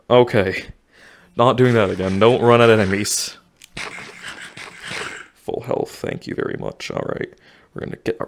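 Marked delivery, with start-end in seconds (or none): 5.3-8.3 soft unvoiced mutter; muttering softly. Real, not acted. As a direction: mutter it under breath. Quiet muttering while playing.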